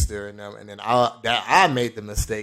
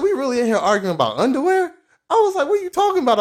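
heated argument; 5 dB louder, faster than usual. Retold or imitated. Arguing about stolen underwear.

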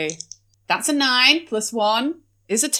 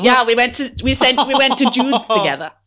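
put-on posh baby voice. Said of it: "Why is your voice devolving the more you speak?".

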